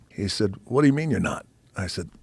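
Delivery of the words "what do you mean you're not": angry dad. Retold or imitated. Father challenges son quitting football, mock indignant. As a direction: push back in disbelief.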